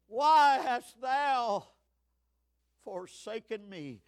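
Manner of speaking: slow, fading anguished question; separating cry. Acted. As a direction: stretch it, then let it drop away. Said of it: "This was a separating cry".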